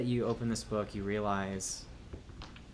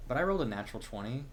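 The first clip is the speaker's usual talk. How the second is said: excited disbelief; 3 semitones higher, much faster than usual. Real, not acted. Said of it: "I want you to believe me".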